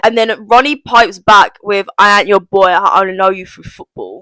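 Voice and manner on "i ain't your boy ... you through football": lightly put-on attempt at Ronnie's accent; a hint of a badly imitated accent; awful imitated accent. Viewer quoting Ronnie piping back at Montel, awful imitated accent. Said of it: "That was an awful accent".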